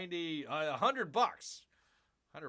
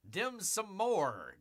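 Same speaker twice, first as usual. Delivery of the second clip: drawn-out, sing-song dim sum more; playful pun; 6 semitones higher, much slower than usual. Pretend. Reading the menu aloud, drawing out the pun playfully. Punning on the dish name.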